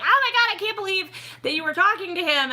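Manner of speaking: high, loud mock squeal; hammed-up starstruck disbelief; imitated fan gushing. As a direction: gush like an amazed fan. Acts out amazed people online.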